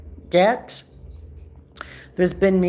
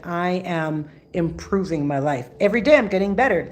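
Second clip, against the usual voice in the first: positive affirmation. Shown as a demonstration. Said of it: "you need to turn your language around saying".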